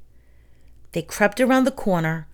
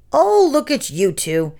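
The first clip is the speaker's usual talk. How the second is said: hissed; 6 semitones higher than usual. A narrator's reading. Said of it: "it hissed".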